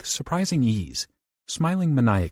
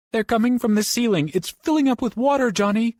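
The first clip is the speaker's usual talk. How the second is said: much higher, louder terrified cry; crying in fear; 13 semitones higher, 4 dB louder than usual. Acted. Trapped Bobby cries to Johnny as water rises, high terror. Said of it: "Bobby cried".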